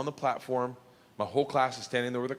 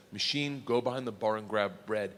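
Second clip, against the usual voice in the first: put-on Russian accent; 7 semitones lower, 4 dB quieter than usual. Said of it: "in Russian he says".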